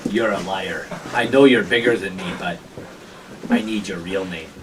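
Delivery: low, softened accusation; accusing gatekeeper. Acted. Gatekeeper asks a bigger stranger's real name, quietly accusing. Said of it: "he goes, he looks at you, goes".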